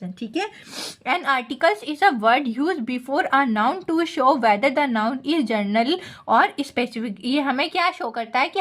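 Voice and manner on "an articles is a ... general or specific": reading the slide out word by word, very slowly; slow dictation read. Acted. Teacher dictating an English definition to students, very slow and even. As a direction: spell it out slowly for the class to copy.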